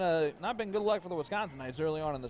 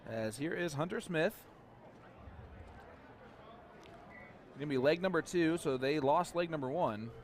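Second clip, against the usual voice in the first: radio play-by-play; 3 dB quieter than usual. Acted. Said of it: "do some, uh, radio play-by-play".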